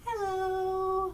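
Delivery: sweet, friendly tone. Leading listeners through a hello rhyme, saying hello nicely. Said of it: "Let's say hello as nicely as we can".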